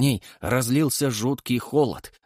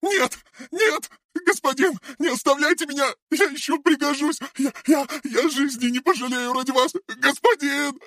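infernal screaming. A narrator's reading. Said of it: "заорала Мария не своим инфернальным голосом".

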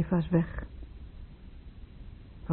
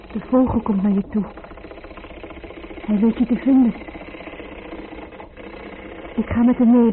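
calling out; 3 semitones higher than usual. Acted. Calling out to absent husband.

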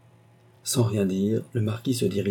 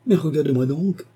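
urgent, higher-pitched plea; crying out; 7 semitones higher, 4 dB louder than usual. A narrator's reading. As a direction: implore a lover to look. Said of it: "s'écria-t-elle".

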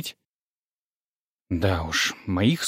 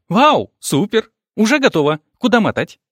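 put-on thrilled girl; 9 semitones higher, 4 dB louder than usual. A narrator's reading. Vera thrilled by shopping offer.

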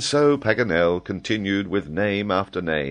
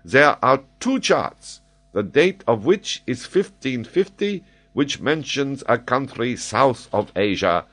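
slightly higher, emphatic lecturer; lightly voiced enthusiastic scholar; eager lecturing geographer; 7 semitones higher, 4 dB louder than usual. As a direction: recite the history with lively authority.

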